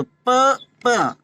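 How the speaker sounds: प with both lips pressed then released; bilabial demo. Shown as a demonstration. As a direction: pop प off closed lips. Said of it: "देखो दोनों ओठ छू रहे हैं".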